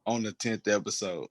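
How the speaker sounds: talking through the hiccups; hiccuping between words. Real, not acted. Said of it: "I got the damn hiccups".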